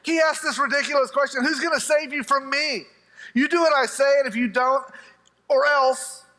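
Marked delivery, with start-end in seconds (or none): 1.4-6.2 raised, forceful mock threat; threatening king. King threatening the men who defy him, menacing. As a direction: play a king laying down the law, pitched up. King's threat, acted in retelling.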